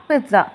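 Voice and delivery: pizza as PIZ-za, without a T; wrong pronunciation. Shown as a demonstration. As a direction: say pizza with a plain Z. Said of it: "not pizza".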